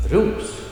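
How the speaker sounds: "ros" high and rising. Shown as a demonstration. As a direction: lift "ros" as the end of the compound. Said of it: "be rising".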